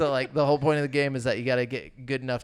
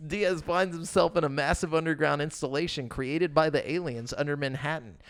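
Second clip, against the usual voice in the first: steady informational read-aloud; 3 semitones higher than usual. Real, not acted. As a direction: read a game synopsis off the page. Reads out a game synopsis.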